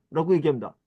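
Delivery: ordinary talk, nothing marked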